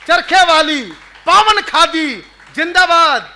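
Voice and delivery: slow, declaimed patriotic verse; poem recitation. Acted. Poet rousing a gathering with freedom verses, declaimed recitation. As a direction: recite like a rally slogan, drawing out each phrase.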